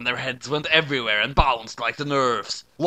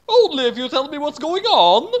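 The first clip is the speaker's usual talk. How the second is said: gasping; 11 semitones higher, 6 dB louder than usual. A narrator's reading. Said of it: "gasped Knight".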